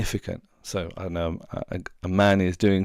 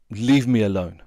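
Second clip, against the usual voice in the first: sulky; 7 dB louder than usual. Retold or imitated. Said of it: "like that".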